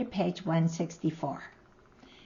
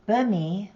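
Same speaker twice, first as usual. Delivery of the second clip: "Bumi" with the stress on BU; Concow stress; 3 semitones higher, 5 dB louder than usual. Shown as a demonstration. Teacher giving the Concow word for bone, first-syllable stress. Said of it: "you may need to change the stress".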